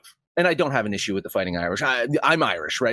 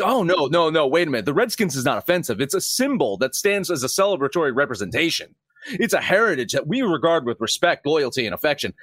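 mocking imitation; 4 semitones higher than usual. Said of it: "It's like".

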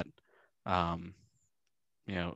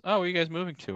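high mock curious; 10 semitones higher, much faster than usual. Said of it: "she goes".

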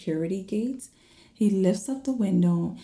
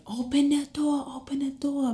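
retold yelling; 8 semitones higher than usual. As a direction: imitate your own panicked call to be let in. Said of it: "I was yelling".

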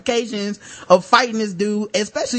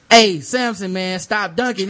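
raised, louder retold call; calling out a warning; 2 semitones higher, 5 dB louder, slower than usual. Court monitor to a dunking player, calling out a warning. Retelling first warning to dunker.

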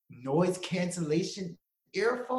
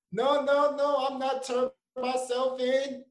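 mock defiant refusal; 9 semitones higher, slower than usual. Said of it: "mock refusal to Apple".

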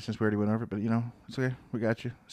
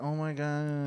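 mildly gushing, higher-pitched oh-my-gosh; gushing reaction; 4 semitones higher, much slower than usual. Retold or imitated. Co-host retells reacting to the daughter's audio message, gushing. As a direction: draw it out, touched and amazed. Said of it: "I was like".

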